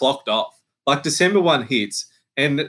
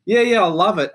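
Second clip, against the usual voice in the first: fake enthusiasm; 7 semitones higher than usual. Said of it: "And you go".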